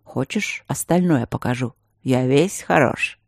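man teasing his friend; flirty. Acted. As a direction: lure her with a wink in the voice. Flirty male voice.

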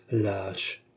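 soft, low grumble; grumbled insult. A narrator's reading. Oliva watches Beausire count the gold, grumbling. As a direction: let the insult drop under the voice. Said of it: "grommela Oliva".

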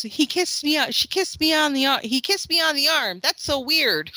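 high, amazed child impression; imitated daughter. Sister reporting brother's kiss, high mimicked voice.

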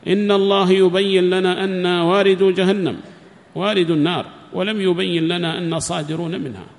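loud, impassioned lament; mild mock of a husband lamenting to his wife; anguished cry. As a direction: cry out the fear of not being saved. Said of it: "يبكي".

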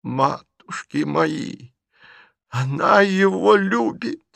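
stunned by the confession; aghast old aunt. A narrator's reading. Aunt exclaiming over Liza's love, slow and high.

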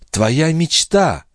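put-on slow entranced young woman; young wife. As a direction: answer in a trance. Lorenza answers, slow.

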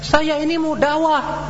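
the husband's reply jumps high and sharp; mock a self-righteous husband; defiant husband. Husband's defiant answer voiced. (suami menjawab dengan nada tinggi dan ketus)

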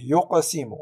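"يقسم" with a bouncing q; قلقلة صغرى. Shown as a demonstration. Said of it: "نقوم بقلقلته". (قلقلة قاف "يقسم")

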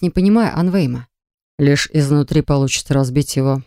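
steady, measured man; calm man's voice. Acted. Anvejm speaks, lower voice.

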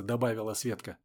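usual speaking voice

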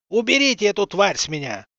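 strained hoarse cry from under a weight; hoarse wheeze. A narrator's reading. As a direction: rasp it out, pinned and choking. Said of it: "прохрипел он из-под мёртвого тела".

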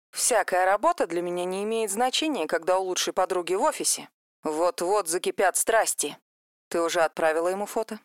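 soft, eager gossiping friend; hushed gossip. Acted. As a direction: lean in and dish the gossip softly. Vika gossiping on the phone.

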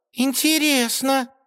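curious mermaid watching from the branch; mermaid's drawn-out voice. A narrator's reading. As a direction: say it with dreamy curiosity. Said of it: "прошептала русалка".

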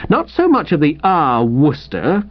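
mildly brusque retort. Acted. Wooster answering his bedridden rival, brusque. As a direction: cut off his familiarity, a touch curt.

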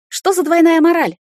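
high, loud furious demand; loud, high angry cry of outrage; indignant outburst. Acted. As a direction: throw the hypocrisy back in his face. Heroine furious in quarrel.

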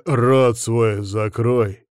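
slow, heavy bark; a drawn-out mild bark. Acted. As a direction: growl the order at him. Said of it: "рявкнул я".

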